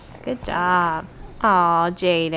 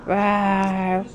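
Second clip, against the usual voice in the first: dinosaur roar. Shown as a demonstration. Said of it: "What does a dinosaur say?".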